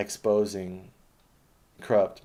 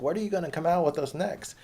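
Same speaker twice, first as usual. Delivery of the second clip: high, louder awestruck question; mock Joe Rogan; 10 semitones higher, 4 dB louder than usual. Mocking Joe Rogan asking Elon Musk, high hammed-up awe. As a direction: gush like a dazzled fan. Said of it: "Asking Elon Musk".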